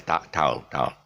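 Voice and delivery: put-on TOWEL in a British accent, gliding ta-ul. Teacher contrasting British with Malaysian speech, British accent. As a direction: say "towel" the British way, one smooth glide. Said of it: "against a British guy who says".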